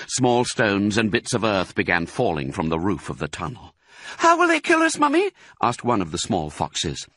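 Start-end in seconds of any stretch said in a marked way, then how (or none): 4.2-5.3 very high, louder little-fox voice; frightened child. A narrator's reading. Small fox asking Mummy, frightened child. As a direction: ask like a scared little one. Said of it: "His round black eyes were huge with fright".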